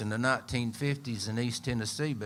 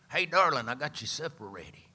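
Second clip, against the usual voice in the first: mama calling out; 3 semitones higher, 3 dB louder than usual. Retold or imitated. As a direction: holler hey darling across the yard like a mama. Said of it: "Billy Ray's mama would go".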